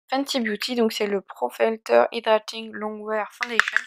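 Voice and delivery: English product name in a French accent. Real, not acted. Beauty vlogger reads out the foundation's name, French-accented English. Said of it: "Faites pas attention à mon accent anglais".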